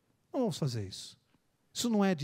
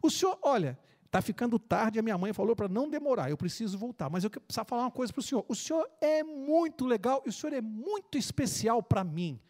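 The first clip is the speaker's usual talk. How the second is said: put-on sincere little boy; 4 semitones higher than usual. Boy says goodbye sincerely.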